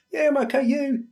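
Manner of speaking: high, sing-song brush-off answer; automatic okay reply. Retold or imitated. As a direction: answer on autopilot, not really meaning it. Acted reply in phone chat.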